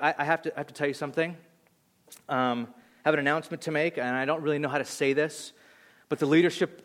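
haltingly, a little low and soft; imitating a reluctant, nervous announcer; hesitant announcement. Girlfriend afraid of crowds addresses the youth group, hesitant. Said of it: "she starts like this".

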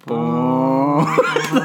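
long droning organ note made with the mouth; mouth-organ hum, held long; imitated organ drone. Co-host imitates organ music for somber mood, droned organ note. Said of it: "What does an organ sound?".

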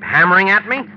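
fed-up husband shouting at his fiancée; exasperated shout. Acted. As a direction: shout her down in irritation. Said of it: "Please don't shout at me".

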